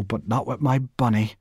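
proudly. Acted. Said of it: "She said this proudly".

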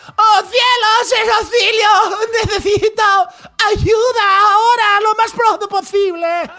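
very high, loud hammed-up cry for help; dubbed movie voice. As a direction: overact like a badly dubbed film. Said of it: "película de esas que veíamos en México traducida".

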